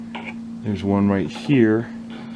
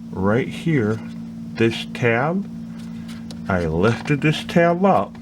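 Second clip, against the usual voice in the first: talking around a flashlight held in the teeth; flashlight in mouth; slower than usual. Real, not acted. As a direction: mouth full, words muffled by a flashlight. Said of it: "I have a flashlight in my mouth".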